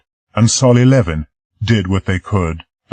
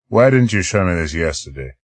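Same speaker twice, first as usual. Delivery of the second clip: cold. Acted. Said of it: "I asked coldly".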